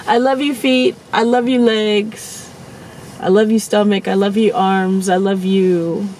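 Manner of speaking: thanking her body in the shower, tenderly; tender self-love. Retold or imitated. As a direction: coo fondly to your own feet and legs. Talking lovingly to own body.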